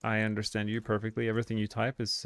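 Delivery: ordinary talk, nothing marked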